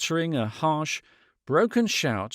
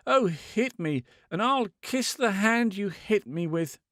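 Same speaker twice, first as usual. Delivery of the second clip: raised, pleading and reckless; wild imploring; 6 semitones higher than usual. A narrator's reading. Woman imploring the man to hit her, wild and high. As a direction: beg him to strike her. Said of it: "she implored him, wildly, stupidly".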